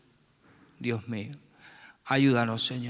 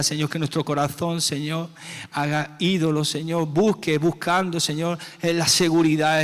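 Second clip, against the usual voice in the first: higher, louder pleading prayer; rising fervor; 4 semitones higher, 4 dB louder than usual. Real, not acted. Committing hearts to God, raised urgent plea. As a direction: build into an urgent plea against idols.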